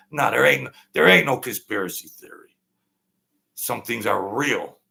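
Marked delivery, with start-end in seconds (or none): 0.1-2.6 louder insistent denial; emphatic. Real, not acted. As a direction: push back hard on the idea. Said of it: "emphatic rebuttal".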